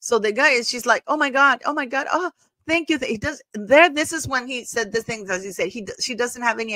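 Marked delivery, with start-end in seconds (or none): 1.1-3.0 high-pitched, overdone gushing thank-you; mock gushing thanks. Meghan thanking the chef, in a high mock gush. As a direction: gush up high like an overeager guest.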